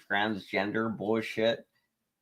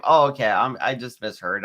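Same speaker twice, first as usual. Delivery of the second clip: tipsy; 4 dB louder than usual. Real, not acted. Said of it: "I'm a little tipsy".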